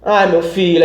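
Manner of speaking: lightly imitated tearful grandmother; a touch of a mock wail. Grandmother reacting to grandson coming out, mildly mock tearful. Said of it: "Aí começou a chorar".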